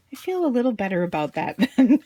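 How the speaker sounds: said through laughter; laughing reply from daughter. Retold or imitated. Daughter consoled by her mother, laughing through the words. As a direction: giggle through the line as she is reassured. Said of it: "And she goes".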